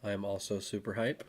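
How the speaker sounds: flat monotone, deadpan. Acted. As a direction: say the hype in monotone. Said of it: "as you can tell by my monotone voice".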